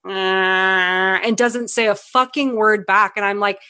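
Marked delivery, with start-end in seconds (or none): 0.1-1.2 dull, drawn-out monotone "ahh"; flat mock groan; wordless grunt. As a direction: imitate a blank, wordless non-answer. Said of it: "he's just like".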